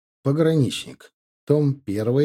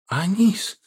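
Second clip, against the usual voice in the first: high, startled call of a son's name; surprised cry; 8 semitones higher than usual. Acted. Father seeing his captive son, surprised cry. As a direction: cry out in shock at seeing him. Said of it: "крикнул Ихаб удивлённо".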